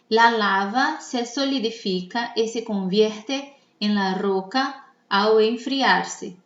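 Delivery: measured exercise read-aloud; careful dictation. Shown as a demonstration. Teacher reads for students to mark syllables, careful dictation. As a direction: read it out for the class, slowing at the end. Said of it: "Vocês vão me escutar".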